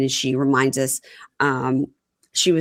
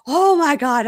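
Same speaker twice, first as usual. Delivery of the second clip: mock disbelief; 10 semitones higher, 3 dB louder, slower than usual. Acting out his dramatic disbelief.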